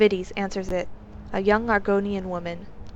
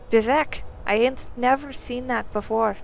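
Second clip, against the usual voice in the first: startled; 4 semitones higher, 3 dB louder than usual. Acted. Maid startled by secret tunnel.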